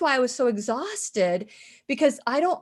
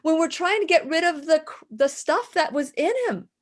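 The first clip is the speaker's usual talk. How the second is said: firm protest, higher but not shouted; firm, not yelling; 5 semitones higher than usual. Retold or imitated. Retelling a stand taken with dad's nurse, firm protest. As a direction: object firmly without yelling. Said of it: "I wasn't yelling or anything".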